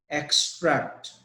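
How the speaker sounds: "extract" stressed on the first syllable EX. Shown as a demonstration. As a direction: lean on EX in "extract", falling after. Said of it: "The stress is on E X".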